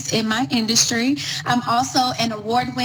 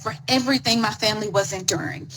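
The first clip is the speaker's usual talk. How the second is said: whispering; faster than usual. Real, not acted. Confessing depression and self-blame.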